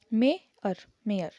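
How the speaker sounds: मेयर said with a clear ए glide; mayor vowel. Shown as a demonstration. Teacher repeating मेयर for the class, careful. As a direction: stretch the ए in मेयर. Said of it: "अ".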